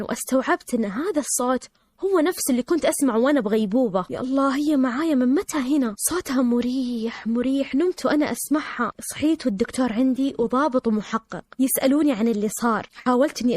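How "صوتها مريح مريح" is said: slow, stretched-out words; lingering, soothed. Real, not acted. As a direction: draw it out restfully. Savouring memory of a soothing voice.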